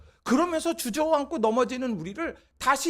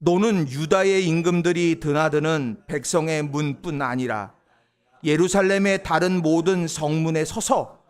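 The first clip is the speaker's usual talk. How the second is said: slow, measured, lower reading; unison scripture reading; 6 semitones lower, 3 dB louder than usual. Acted. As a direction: read each phrase slowly with the congregation. Congregation reads scripture together.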